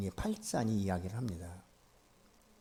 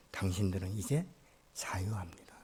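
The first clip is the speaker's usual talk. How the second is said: hushed and tender, barely voiced; soft whisper; 5 semitones lower, 7 dB quieter than usual. Master whispering to the slave family that they are free. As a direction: whisper the word of freedom.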